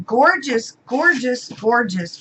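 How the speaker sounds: high, delighted exclamations; bright exclaimed praise, pitch up; admiring gush. Real, not acted. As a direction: swoon over how pretty they are. Admiring washi tapes.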